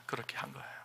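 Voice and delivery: whisper. Real, not acted. Hushed aside after confession.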